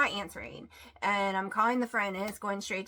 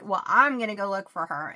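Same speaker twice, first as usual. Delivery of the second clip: firm, loud; 7 dB louder than usual. Retold or imitated. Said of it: "I'm like".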